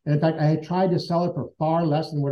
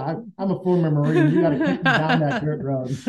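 laughing. Real, not acted. Joking about being a doubter.

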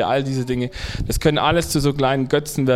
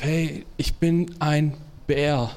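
slow plea; 4 dB quieter, much slower than usual. Acted. Bear pleads with the boss.

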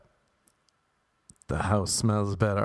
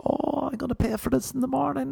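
mock dread; faster than usual. Hungover self quoted.

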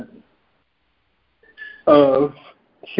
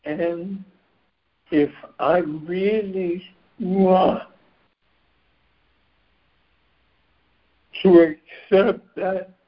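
strained, going hoarse; 4 semitones higher than usual. Real, not acted. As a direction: voice wearing thin and rough. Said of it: "losing my voice".

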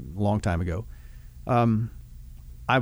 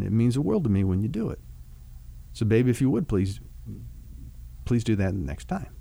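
softer, calmer, unhurried words to a spouse; gentle talk to wife; 3 dB quieter than usual. Shown as a demonstration. Husband modelling a loving confrontation to his wife, softly and calmly. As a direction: talk to her tenderly, like you mean it. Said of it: "Something like".

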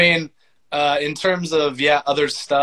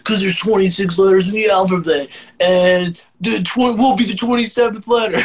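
higher, louder, giggling through it; laughing; 5 semitones higher, 4 dB louder than usual. Real, not acted. Laughing at old band name.

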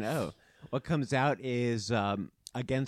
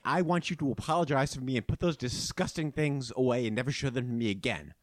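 disgusted princess; 3 semitones higher, 4 dB louder than usual. Acted. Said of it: "She says".

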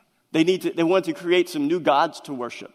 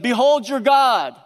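slow, louder, higher grand announcement; proclaiming Aaron; 5 semitones higher, 4 dB louder, slower than usual. Retold or imitated. Aaron grandly presenting the calf to Israel, slow and proclaiming. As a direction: present the idol with mock grandeur.

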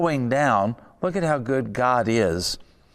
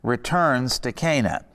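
"returns" leaned on with a falling tone; stress on returns. Shown as a demonstration. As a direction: hit the word "returns" firmly. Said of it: "emphasize the word returns".

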